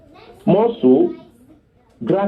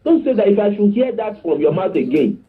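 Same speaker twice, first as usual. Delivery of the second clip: high-pitched angry father, acted; mock shout, pitched well up without much volume; retold father's shout; 5 semitones higher than usual. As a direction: imitate a father scolding his daughter. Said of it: "the father shouted at her".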